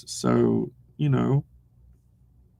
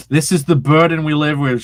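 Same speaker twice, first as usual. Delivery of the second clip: laughing; 2 semitones higher, 8 dB louder than usual. Shown as a demonstration. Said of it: "repeats it".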